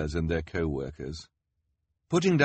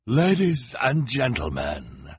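higher, louder, slow announcing; higher, louder, slow grand showman; ringmaster showman; 7 semitones higher, 5 dB louder, slower than usual. A narrator's reading. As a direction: call out to the crowd like a ringmaster. Olaf addresses crowd.

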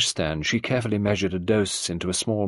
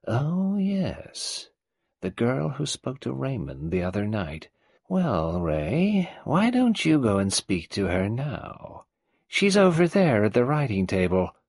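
put-on higher, creaky old matriarch voice; old tyrant mother; 5 semitones higher, slower than usual. Old Mrs Boynton greeting Nadine, in her higher old-woman voice. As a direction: play the domineering old woman.

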